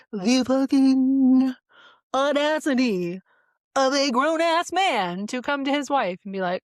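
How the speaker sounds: high, loud, slow outraged rant; angry rant. Real, not acted. Vlogger fuming about her husband's audacity, loud and high. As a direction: spit out the outrage slowly.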